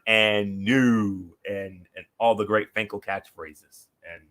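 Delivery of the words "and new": "and new" drawn out with the stress on "new"; emphasis on and new. Retold or imitated. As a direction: stretch the "and" into a long "new". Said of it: "put the emphasis on".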